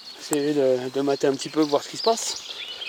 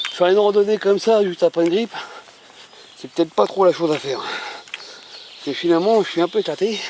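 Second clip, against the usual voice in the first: out of breath. Real, not acted. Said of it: "J'arrive pas à respirer, j'ai le nez bouché".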